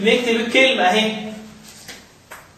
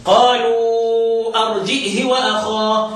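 drawn-out Quranic reciting; reciting the reading of Ibn Dhakwan; slow recitation; slower than usual. Shown as a demonstration. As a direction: recite slowly, stretching the vowels. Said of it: "نقرأ انفرد بها ابن ذكوان".

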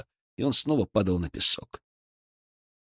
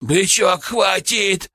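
loud, raised cry to stop; sudden shout; 9 semitones higher, 4 dB louder, much slower than usual. A narrator's reading. Козёл tries to stop his friend, sudden shout. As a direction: cut in with a high, urgent call. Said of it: "вдруг крикнул козёл".

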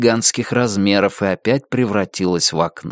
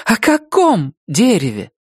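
even higher, insistent repeat; angry blurt; 10 semitones higher than usual. Acted. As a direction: demand it again, almost angry. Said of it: "выпалила Рози чуть ли не со злостью". (настойчиво, со злостью)

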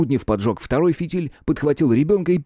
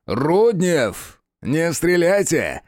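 higher, slow, imperious order; sharp command; 7 semitones higher, much slower than usual. A narrator's reading. Official stopping Rudnev from shooting, imperious. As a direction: command them to hold fire. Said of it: "резко приказал ... повелительный голос".

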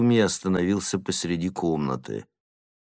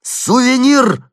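much higher, louder, drawn call; shout; 11 dB louder, slower than usual. A narrator's reading. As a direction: shout his name a second time. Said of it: "закричал я вторично".

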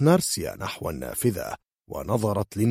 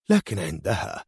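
ordinary delivery, nothing marked

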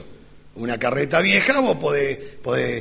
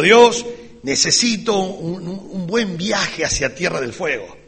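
slow, louder prayer, a put-on for the devil; mock loud prayer; 4 semitones higher, 3 dB louder than usual. Preacher prays loudly on purpose to fool Satan, slow and louder. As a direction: announce the trip loudly and deliberately. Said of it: "Y fuerte digo".

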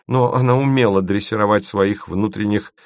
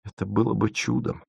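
reproachful; 2 semitones higher, 5 dB quieter than usual. A narrator's reading. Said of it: "укоризненно".

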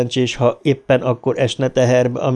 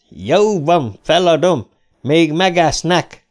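higher-pitched cry of surrender; amused shouting; 6 semitones higher, slower than usual. A narrator's reading. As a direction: call out that you give in, amused. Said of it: "kiáltotta Ricsi, és maga is nevetett". (nevetős, megadó kiáltással)

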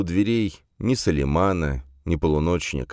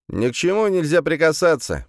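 high, louder, rote warning like a robot; robotic recitation; 12 semitones higher, 3 dB louder than usual. A narrator's reading. Gendarme warning visitors not to touch anything, robotic recitation. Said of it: "произнёс он заученно, словно робот".

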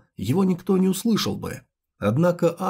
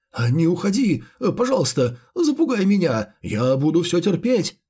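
plain reading voice

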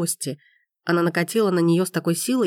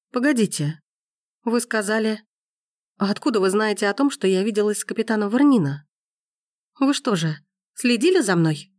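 higher, suspicious accusation; startled realization; 3 semitones higher than usual. A narrator's reading. Gabrielle realizing Forster spied on her, startled. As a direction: catch on and accuse.

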